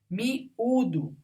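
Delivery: "Miúdo" as mi, pause, údo; split syllables. Shown as a demonstration. Teacher showing a vowel alone in its syllable, split. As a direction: pause before the stressed ú in "Miúdo". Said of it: "sozinha na sílaba".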